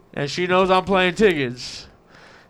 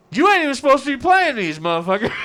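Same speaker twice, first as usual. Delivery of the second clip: hammed-up indignant accusation, pitched up; mock scolding; 9 semitones higher, 6 dB louder than usual. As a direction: imitate a wife telling him off, high and loud. Imitates wife scolding him over tickets.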